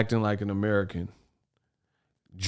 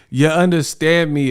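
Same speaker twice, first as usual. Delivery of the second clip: mocking quote; 5 semitones higher, 5 dB louder than usual. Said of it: "is killing me".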